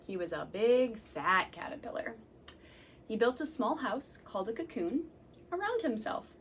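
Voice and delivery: gentle storytime read-aloud; reading to children. Acted. Reading picture book to children.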